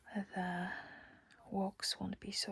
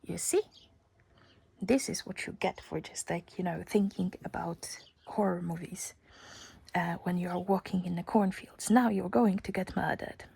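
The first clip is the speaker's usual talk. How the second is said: louder, mock-ominous warning whisper; teasing inner voice; 6 dB louder than usual. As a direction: scold yourself like a spooky narrator. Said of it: "my first thought was".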